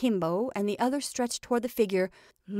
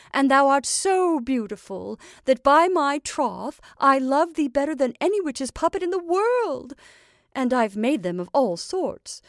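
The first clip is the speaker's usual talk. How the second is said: emphatic, loud, swooping witch voice; doting witch; 3 semitones higher, 5 dB louder than usual. Acted. Witch tells her puppet it is the best, emphatic doting. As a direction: gush over your creation, voice raised.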